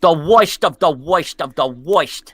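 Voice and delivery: put-on slow, chanted Brooklyn accent. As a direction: stretch it out in mock Brooklynese.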